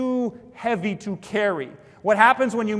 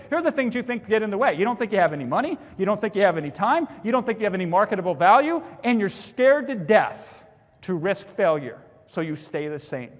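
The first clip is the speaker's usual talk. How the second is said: fast, blunt, going straight at the excuses; name their excuses head on, no cushioning. Shown as a demonstration. Webinar host confronting the audience's excuses, blunt and fast. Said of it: "That's how I say it now".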